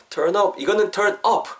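"turn up" closed off with a P; lips-touching P ending. Shown as a demonstration. Teacher showing the mistake, "turn up" ending in a P. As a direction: let the lips meet at the end of "turn up". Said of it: "입술이 닿으면은 유피 정도로 느껴요".

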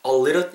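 "a little" run together as "a-liddle", starting like 얼; linked a little. Shown as a demonstration. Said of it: "약간 얼 정도로 발음이 되죠". (a little을 '어리를'처럼 붙여서)

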